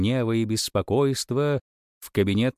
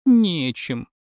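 sniffling; 7 semitones higher, 4 dB louder than usual. A narrator's reading. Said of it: "шмыгнула носом царевна".

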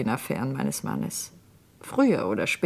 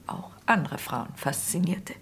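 whispered; 5 dB quieter than usual. Acted. Bitter confession about her husband.

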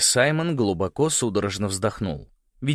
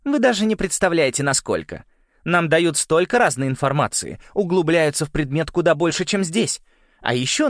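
raised, loud show of enthusiasm; gushing; 8 semitones higher, 4 dB louder than usual. A narrator's reading. Уинтер brags about the school, gushing. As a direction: talk it up eagerly, pitched high. Уинтер gushes, covering for Саймон.

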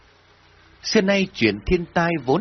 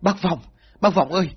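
high-pitched, acted cry for help; distraught villager pleading, voice pitched way up; wailing in distress; 9 semitones higher than usual. A narrator's reading. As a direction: wail out to a neighbour in panic. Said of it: "chị ta khóc lóc kêu gào".

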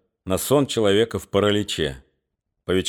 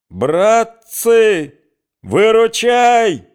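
much higher, much louder, slow cry for help; loud, high desperate yell; panicked bellow; 11 semitones higher, 7 dB louder, much slower than usual. Acted. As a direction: scream for your mates. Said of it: "заорал Гундосый".

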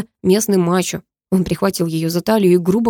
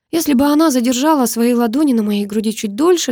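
ordinary delivery

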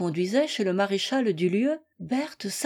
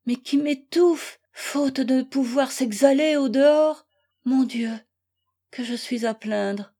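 higher, louder, pleading prayer of despair; a wife's despairing cry, raised and pleading; anguished lament; 4 semitones higher, 3 dB louder than usual. Acted. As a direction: pour out her heartbreak to God. Wife laments alone, praying.

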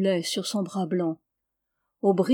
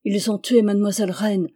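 1 outraged cry; 3 dB louder, faster than usual. Acted. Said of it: "s'écrièrent Jeannin".

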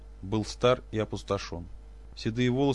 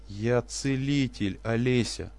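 moaned; 2 semitones higher, much slower than usual. Acted. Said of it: "простонал профессор".

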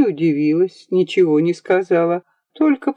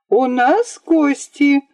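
put-on higher, slow ringing girl's announcement; girl announcing guests to her brothers; ringing call; 8 semitones higher, slower than usual. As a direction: ring it out proudly. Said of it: "звонко повторила Ия".

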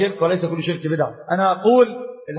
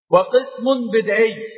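slow emphasis; much slower than usual. Shown as a demonstration.

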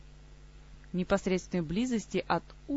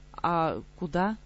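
bewildered; much slower than usual. Acted. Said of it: "растерянно переспросила девчушка".

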